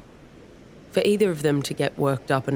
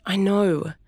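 pleading; 6 semitones higher than usual. Acted. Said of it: "she pleaded".

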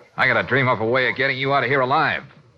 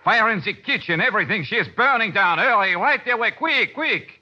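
hammed-up French accent, frantic emergency call; phony French accent; 5 semitones higher than usual. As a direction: panicky French chef, pitch climbing as the alarm builds. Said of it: "my phony French accent".

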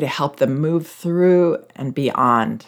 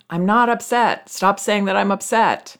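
put-on pitched way up, indignant child protest; mock child yelling; 6 semitones higher than usual. Parent retells daughter yelling, high mock protest. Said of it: "She'd start yelling".

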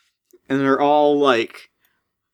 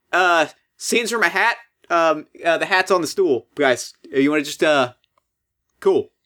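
snapping back; 4 semitones higher than usual. Retold or imitated. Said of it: "he snaps back and he goes".

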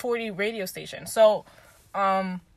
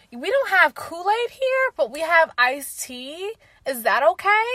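mock awkward white parent; 5 semitones higher, slower than usual. Parents awkwardly quizzing black partner.

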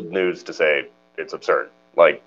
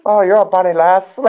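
high, badly faked Irish accent; terrible Irish accent; 12 semitones higher, 4 dB louder than usual. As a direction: attempt a mock Irish accent, pitched up. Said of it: "that was terrible".

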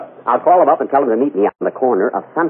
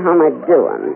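sultry aside in character; coy vamp question; Mae West impression. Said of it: "make believe it's Mae West".

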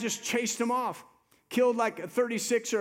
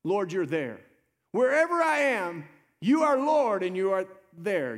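confident declaration; 4 dB louder than usual. Retold or imitated. Preacher voicing the psalmist to the Lord, confident declaration. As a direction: declare it boldly to God, swelling midway. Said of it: "That was the confidence that the psalmist had".

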